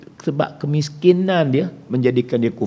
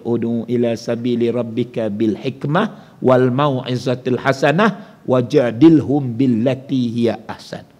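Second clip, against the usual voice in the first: slow, measured chanted recitation; slow Quranic recitation; slower than usual. Acted. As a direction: recite the verse slowly and reverently.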